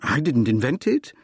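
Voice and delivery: mild protest, a touch of pleading; understated acted plea. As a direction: plead your innocence lightly. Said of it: "I pleaded".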